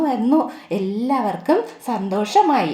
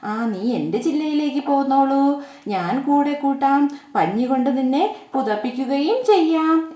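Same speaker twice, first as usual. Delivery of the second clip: kind squirrel. Acted. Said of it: "എന്ന് അണ്ണാൻ പറഞ്ഞു".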